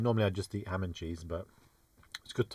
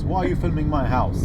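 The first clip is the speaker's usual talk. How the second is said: angry shout; 6 semitones higher, 9 dB louder than usual. Retold or imitated. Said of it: "Someone chases after us".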